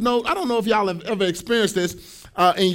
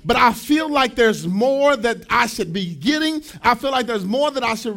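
preaching shout. Real, not acted. Sermon climax, shouting.

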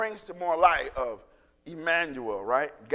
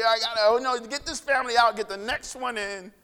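hurried callous; 5 semitones higher, 4 dB louder than usual. Retold or imitated. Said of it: "callous to it".

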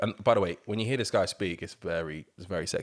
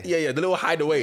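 mocking voice; 8 semitones higher, 6 dB louder, faster than usual. Mocking voice to Michael Owen.

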